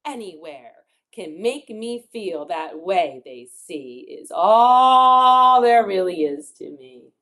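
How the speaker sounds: emphatic rhyming storybook read; reading to children. Acted. Teacher reads defiant rhyme to children, emphatic. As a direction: build to one long, loud stressed word.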